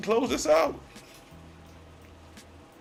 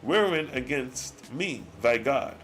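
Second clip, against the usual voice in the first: solemn scripture reading; 3 semitones lower than usual. Acted. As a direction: read the old words like a solemn sermon. Reads God's archaic speech slowly.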